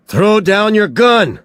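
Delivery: "Throw down your gun!" yelled high and loud, pushing down on gun; urgent shouted order; shouted command. A narrator's reading. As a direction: order it at full volume. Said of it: "Somerset shouted".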